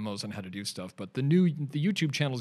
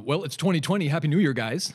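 bright, raised New Year's cheer; higher and louder festive hello to the hosts; cheery greeting; 6 semitones higher, 8 dB louder than usual. Real, not acted. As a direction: call out the greeting with a grin.

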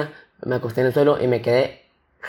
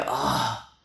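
acted sigh; 3 semitones lower, 9 dB quieter than usual. Acts out reaction after finishing.

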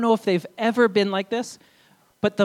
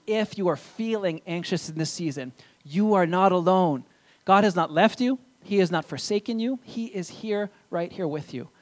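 tender reassurance. Real, not acted. Reassures anxious listeners.

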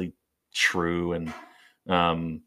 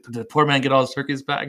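a touch higher, quicker priest; mock concerned priest; 5 semitones higher, faster than usual. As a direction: gently ask like a kindly old priest. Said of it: "he's like".

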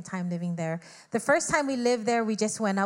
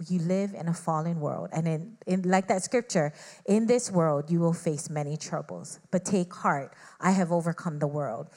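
lower, calm voice of God answering; 5 semitones lower than usual. Retold or imitated. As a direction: speak as God, low and steady. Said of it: "And God just simply said".

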